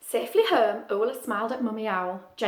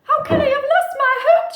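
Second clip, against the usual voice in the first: Ula; 12 dB louder than usual. Acted. Ula's worried question.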